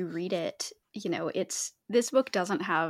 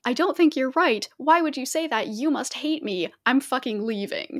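higher, louder parody of a petty rant; mocking Sandstorm's huffy rant, raised voice; mock overreaction; 4 semitones higher, 5 dB louder than usual. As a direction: send up her overreaction. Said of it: "goes on this whole tangent of".

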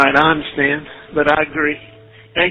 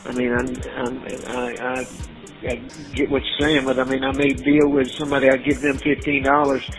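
payphone call. Real, not acted. Jail phone call played.

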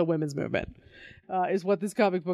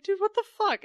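mock exasperated; 10 semitones higher than usual. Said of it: "you're like".

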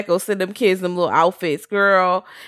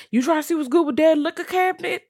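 teasing invitation; 12 semitones higher than usual. Retold or imitated. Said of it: "they definitely was like".

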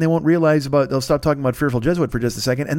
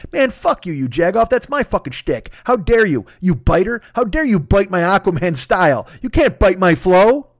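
mock furious Aquaman; 2 semitones higher than usual. Aquaman scolding the penguin for biting his style, mock outrage. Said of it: "Aquaman's just like".

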